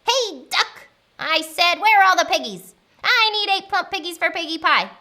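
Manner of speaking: high, loud, bossy witch voice; impatient witch calling out; demanding witch. Acted. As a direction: order the animal to answer you.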